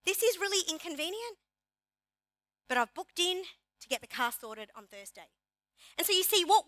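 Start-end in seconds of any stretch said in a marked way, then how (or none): 0.1-5.3 calm take. Shown as a demonstration.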